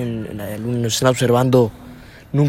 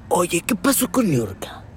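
Adela Micha; 5 semitones higher, 3 dB quieter, slower than usual. Acted. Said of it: "y tú eres Adela Micha".

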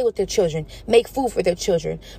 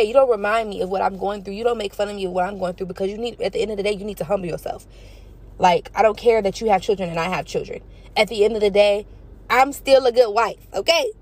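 telling off. Pretend. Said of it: "if I was here, I would've said that".

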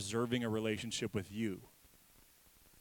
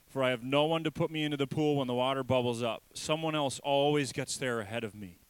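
louder, pained plea; pleading sick man; 3 semitones higher, 6 dB louder than usual. Acted. Sick man pleading at the pool, louder. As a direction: cry out your hopeless excuse. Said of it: "the sick man said".

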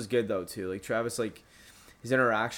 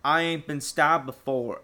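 slow, raised redneck drawl; stupid redneck voice; 4 semitones higher, 4 dB louder, slower than usual. Retold or imitated. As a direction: imitate a dim redneck, stretching the words. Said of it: "like, redneck voice".

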